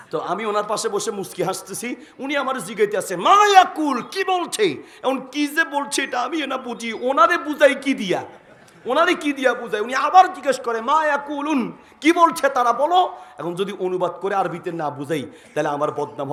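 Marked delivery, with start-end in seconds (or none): 3.2-4.6 Saudi speaker asking. Retold or imitated. Saudi speaker asks, voiced high. 10.8-13.1 Saudi speaker asking. Retold or imitated. Saudi speaker asks again.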